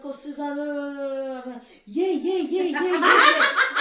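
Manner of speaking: mock the colleagues nodding along, not understanding; mock Aussie colleagues. Mimicking Australian colleagues nodding along, drawn-out laughing yeahs. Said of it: "they're like".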